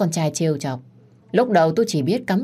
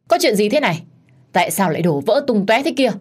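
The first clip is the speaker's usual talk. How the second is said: higher, louder shocked questions; alarmed questioning; 4 semitones higher, 3 dB louder than usual. Acted. Mother-in-law sees the mess, asking in shock. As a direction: demand what happened, startled. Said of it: "thì kêu lên".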